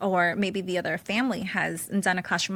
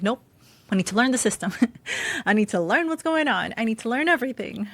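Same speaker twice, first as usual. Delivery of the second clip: louder, resolved "I need to learn"; determined; 2 semitones higher, 5 dB louder than usual. Retold or imitated. Mom retelling her resolve, firm and louder. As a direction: say it like a vow to yourself. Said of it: "so I was like".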